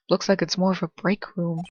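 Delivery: ordinary talk, nothing marked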